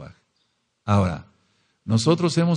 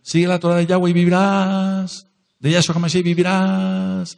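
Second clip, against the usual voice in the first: starts fast and steady, then climbs higher into a ringing cry; building proclamation; 6 semitones higher, faster than usual. Shown as a demonstration. Preacher showing the congregation how he cries out, building. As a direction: build the call until it rings out. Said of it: "Y entonces yo empiezo".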